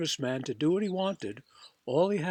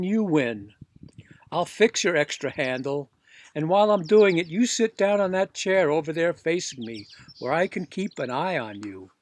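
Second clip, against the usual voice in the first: louder, wary give-in; a touch louder, grudging repairman; grudging serviceman; 5 dB louder than usual. Acted. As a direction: agree but keep watch. Serviceman gives in warily.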